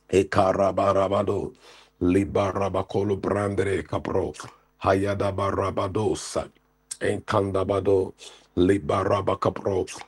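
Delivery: rhythmic chanted tongues; speaking in tongues. Acted. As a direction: rattle off tongues in prayer.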